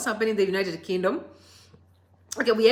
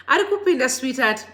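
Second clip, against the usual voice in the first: excited call; 3 semitones higher, 4 dB louder than usual. Real, not acted. Hyping a viewer joining the live.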